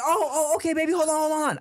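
high, loud hurried reassurance; flustered dad. Retold or imitated. Dad rushing to fix the missed goodbye, flustered. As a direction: replay a panicked scramble to help. Acts out scrambling to fetch David back.

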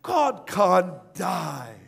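slow, firm mock protest; retold emphatic denial. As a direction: stretch each word in acted disbelief. Preacher husband contradicts weeping wife.

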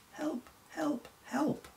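high-pitched cry for help; imploring. Acted. Stranded reindeer calling to any passer-by for help, imploring. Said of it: "in a tone that's most imploring".

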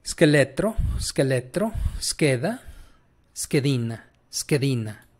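scheletro, scheda, schedina with sch as sk; Italian pronunciation demo. Shown as a demonstration. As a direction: model each word separately with a hard sk. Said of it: "tal cual se pronuncian, igual que español".

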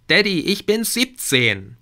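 put-on high, loud teen protest; annoyed teenager. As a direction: whine it like an offended teen. Teen daughter snaps at father. (Tochter zum Vater, hoch und genervt)

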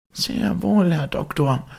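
high, ringing note of triumph; loud triumphant reply. Acted. Butler answering the hidden voice, loud and triumphant. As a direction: crow it out, he has proven his point. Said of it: "mit lauter Stimme ... Triumphes".

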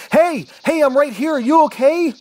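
high, loud, startled hope; excited calling out. A narrator's reading. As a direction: call out urgently to someone you thought was dead. Calls out to firefighter found alive.

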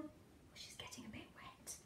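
hushed aside, no voice; whisper. Real, not acted. Reader whispering an aside to the listening child.

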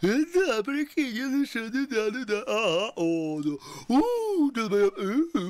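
very high teasing squeal; squeaky mocking voice. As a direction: squeak it out to mock. (писклявый дразнящий голос)

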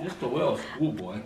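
soft, sheepish innocent voice; innocent little schoolboy. Acted. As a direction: play innocent, quietly to dodge trouble. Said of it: "That's what Landon says when he doesn't want to get into trouble".

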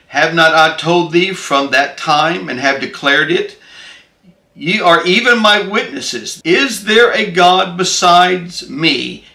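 measured, declamatory Bible reading; solemn proclamation of scripture. Acted. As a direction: read out God's words with weight, pausing between phrases. Reads scripture aloud to listeners.

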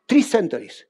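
hushed, awed whisper. Real, not acted. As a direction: drop to a whisper for effect. Dramatic aside about grandfather.

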